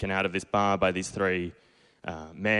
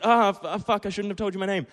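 panicked; 12 semitones higher than usual. Retold or imitated. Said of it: "And I was like".

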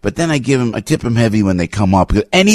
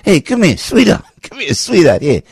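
Sid Caesar type; 4 semitones higher than usual. Retold or imitated. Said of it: "He goes".

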